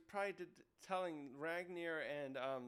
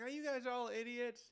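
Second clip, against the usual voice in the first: higher-pitched, exasperated retelling; mock reprimand; 7 semitones higher than usual. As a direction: scold the whole group, half in play. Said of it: "reprimanding everyone".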